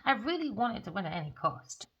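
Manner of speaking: a lightly voiced pleading man, rushed at first; apologetic letter voice. Reader voicing the man writing to Aquarius, lightly voiced and apologetic. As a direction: beg forgiveness in a put-on sorry voice. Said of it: "He's thinking about his counterpart".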